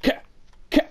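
high, loud, furious yelling at the game; mock raging death scream. Gamer reenacting a gravel death, screaming in fury. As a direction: scream it like you just lost everything. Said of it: "Like, it's like".

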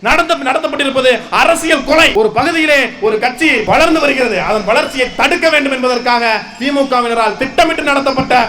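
forceful protest speech in long, punched phrases; impassioned rally oratory. Real, not acted. Party speaker denouncing a political killing to a crowd, impassioned oratory. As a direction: address a crowd with indignant conviction.

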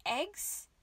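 high rising disbelief; incredulous. A narrator's reading. Rabbit to Catherine, aghast and incredulous. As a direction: gasp out the word in shock. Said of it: "he gasped".

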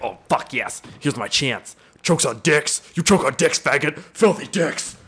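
mock troll commenter. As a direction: gloat like a nasty internet troll. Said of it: "He's like".

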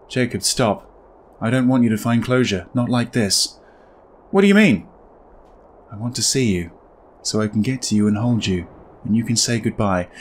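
gentle ghost asking to be seen; ghostly wife. Acted. Reads the dead wife's lines.

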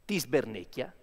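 dramatic recital of nonsense Italian verse; fake Italian poetry. Shown as a demonstration. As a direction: declaim it like a grand Italian poem. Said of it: "but in fake language".

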